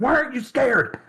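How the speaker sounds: very high, pissed-off, angry voice. Retelling an anime scene where the killer gets annoyed: imitating an angry character. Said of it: "he's getting pissed off".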